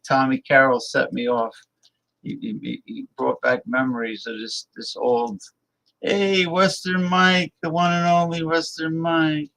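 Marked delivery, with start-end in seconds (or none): 6.0-9.5 hammed-up greeting. Mock greeting to old friend.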